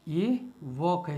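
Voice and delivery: वॉक said slowly with no l, just wok; slow walk, silent l. Shown as a demonstration. Teacher to class: slow वॉक with silent l. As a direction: drag out वॉक, skip the l. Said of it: "इसमें एल silent रहेगा".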